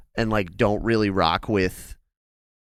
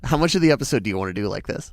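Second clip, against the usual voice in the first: calling through a closed door; raised voice from the next room; from another room; faster than usual. Real, not acted. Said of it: "The speaker is now in the other room".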